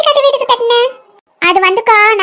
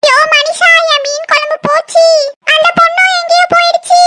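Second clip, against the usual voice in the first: wailing complaint to husband; 4 semitones higher than usual. Acted. Wife wails to husband about curry.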